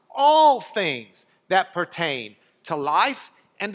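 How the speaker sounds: slow down and press on "all things"; slow emphasis on ALL THINGS. Shown as a demonstration. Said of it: "he really wants that "all things" emphasized".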